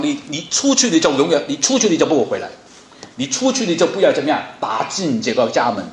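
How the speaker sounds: a hint of a scolding parent slamming the door; angry parent. Shown as a demonstration. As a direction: throw the child out in a mock temper. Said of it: "你不能跟他发脾气的讲".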